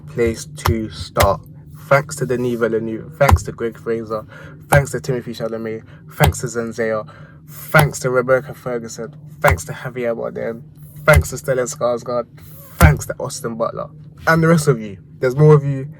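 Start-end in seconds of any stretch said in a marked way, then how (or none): 1.8-13.9 mock Oscar acceptance speech; thanking everyone like at the Oscars. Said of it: "acting like I'm doing a, an acceptance speech at the Oscars". 14.3-15.9 louder mock Oscar thank-you; hammed-up awards speech to the crowd; acceptance speech. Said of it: "acting like I'm doing a, an acceptance speech at the Oscars".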